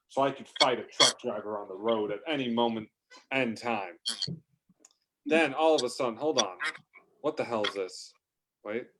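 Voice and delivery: ordinary talk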